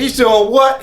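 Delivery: high disbelieving "doing what"; mock surprise. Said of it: "He said, he said".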